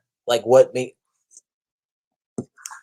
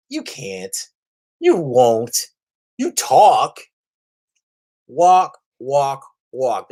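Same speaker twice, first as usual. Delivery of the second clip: mocking Namor; much slower than usual. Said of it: "I'm like".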